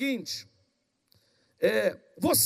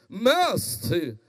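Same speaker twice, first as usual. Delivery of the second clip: lightly pompous, lower address; a touch of churchy intoning; religious intoned voice; 4 semitones lower than usual. Acted. Law expert addressing Jesus in the crowd, lightly intoned pious voice. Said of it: "voz de religioso, quando entonado, muda".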